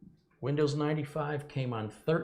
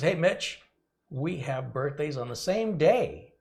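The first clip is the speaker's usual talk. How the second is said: excited; 5 semitones higher, 5 dB louder, slower than usual. Acted. Reading viewer message excitedly.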